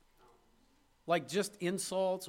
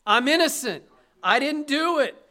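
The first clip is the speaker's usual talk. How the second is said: loud, higher protest of a desperate prisoner; mock criminal crying out his innocence; pleading innocence; 7 semitones higher, 10 dB louder than usual. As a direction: shout it like an accused man begging to be believed. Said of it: "how do you think those criminals responded".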